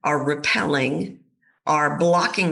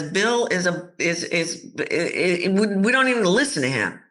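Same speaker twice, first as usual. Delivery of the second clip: fast, higher mocking boardroom voices; dismissive colleagues; 4 semitones higher than usual. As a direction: scoff at him, talking over. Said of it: "everybody's making a decision".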